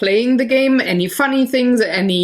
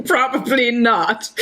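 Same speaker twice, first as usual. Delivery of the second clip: laughing. Real, not acted.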